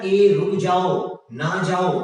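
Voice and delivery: mock warning shout with a long, loud ए; calling a warning. Teacher acts out stopping someone near a spider, calling out. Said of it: "इसको ऐसे बोलेंगे ना".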